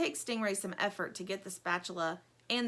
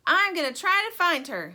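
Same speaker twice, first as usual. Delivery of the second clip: Lumpy declaring; 9 semitones higher, 9 dB louder than usual. Acted. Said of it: "says Lumpy".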